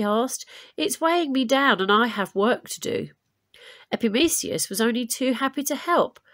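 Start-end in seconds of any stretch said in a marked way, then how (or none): 0.8-3.1 messenger voice. Acted.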